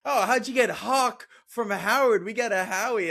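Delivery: imitating a smug character teasing Hawk; mock teasing. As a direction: poke fun at the name like the character does.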